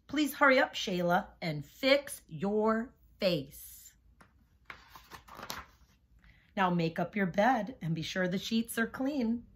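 rhythmic rhyming read-aloud; reading to children. A narrator's reading. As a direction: bounce the rhymes for young listeners. Reads picture book to class.

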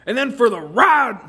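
loud line breaking into laughter; cracking up. Real, not acted. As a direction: lose it mid-line.

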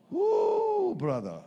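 high-pitched whooping shock; a sudden high woo of disbelief; mock shock. Reacts to being called emotional.

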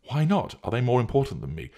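high-pitched, affronted questioning; hurt, demanding comeback; indignant challenge. Acted. Jealous challenge in acted quarrel.

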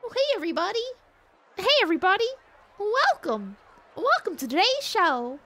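very high cartoon mouse voice; squeaky show host greeting everybody; Mickey. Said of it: "what does Mickey sound like?".

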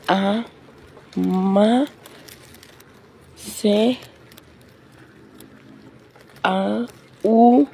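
sounding out each letter slowly; over enunciating. Real, not acted. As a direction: spell it out letter by letter. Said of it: "estás nomás leyendo las letras".

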